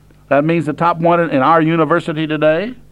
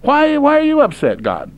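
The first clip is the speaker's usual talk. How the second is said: a mock-innocent whine pitched much higher; indignant complaint; 9 semitones higher than usual. Preacher voicing the men questioning God, high and indignant. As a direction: play the hurt, puzzled sinner protesting. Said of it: "But you say".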